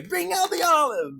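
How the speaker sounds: loud high demanding shout; shouted command. Acted. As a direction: bellow the order high.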